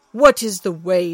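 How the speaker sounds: a touch of a bold warrior; Thor asking. Acted. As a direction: ask with gruff impatience. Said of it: "said Thor".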